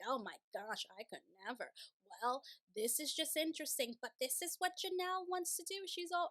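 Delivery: put-on slipping into an accidental Jersey accent. Sister wives judging Janelle's RV, in a put-on Jersey accent. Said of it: "I don't know where this accent is coming from".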